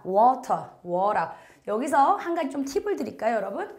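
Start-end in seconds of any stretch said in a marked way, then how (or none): 0.0-1.3 water with the t turned to a flapped r; rolled water. Shown as a demonstration. Teacher showing rolled American water to students. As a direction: roll the t in water like wa-rer. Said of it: "발음을 굴리면 water가 됩니다".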